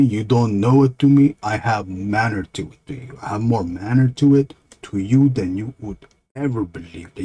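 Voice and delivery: indignant dumb monster, swooping pitch; lightly voiced dopey monster on a rant; stupid monster. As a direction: protest like an offended dim monster. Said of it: "that monster talks stupid".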